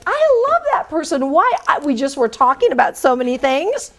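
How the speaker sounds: high, enthusiastic gush; gushing recruiter. Retold or imitated. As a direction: recruiter raving about a candidate. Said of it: "recruiters will be like".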